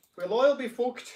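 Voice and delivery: loud put-on Irish accent, very high. Showing how the phrase is supposed to sound, in an Irish accent. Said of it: "an Irish accent".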